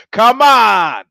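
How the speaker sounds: loud, high, outraged; exasperated shout. Real, not acted. Comic scolding the listeners with an exasperated shout. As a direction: blurt it out in disbelief. Mock outrage at bus stranger.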